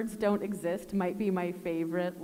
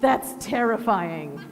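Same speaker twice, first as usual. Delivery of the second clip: laughing; 3 dB louder, slower than usual. Real, not acted. Laughing at the loud test.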